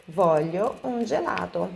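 a blunt, demanding I want an ice cream; direct, blunt. Shown as a demonstration. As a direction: state the want plainly with no softening. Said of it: "Agora eu tô sendo diretona".

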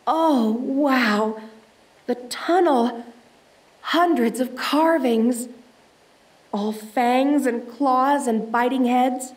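taking in a wall of carvings; hushed awe. Acted. Explorer marvelling at tunnel carvings, slow and awed.

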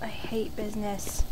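whispered grumble. Real, not acted. Grumbling to self while playing.

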